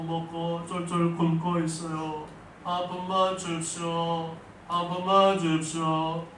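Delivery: slow, high begging voice of a blind beggar; pleading beggar. Acted. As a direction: drag out the plea like a hungry beggar. Beggar Bartimaeus pleading for alms.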